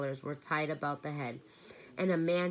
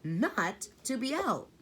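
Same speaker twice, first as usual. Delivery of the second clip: put-on higher, strained frightened girl; wailing; 5 semitones higher, 3 dB louder than usual. A narrator's reading. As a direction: Meg fretting about the tramp, wailing. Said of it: "Meg wailed".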